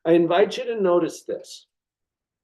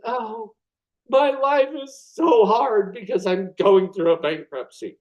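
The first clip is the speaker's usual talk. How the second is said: dramatized self-pity; 4 semitones higher than usual. Retold or imitated. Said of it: "I'm dramatizing that a little bit".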